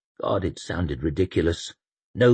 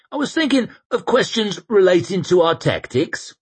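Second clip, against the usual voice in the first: put-on earnest young priest; 13 semitones higher, 5 dB louder than usual. The speaker speaks in character voice.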